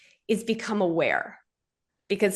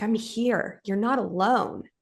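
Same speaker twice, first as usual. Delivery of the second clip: reassuring; slower than usual. Retold or imitated. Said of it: "feminine, emotional, "I got you" energy".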